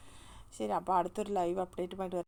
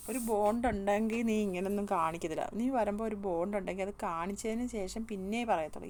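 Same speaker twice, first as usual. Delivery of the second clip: heated scolding; 5 dB louder than usual. Real, not acted. Host scolds the contestant.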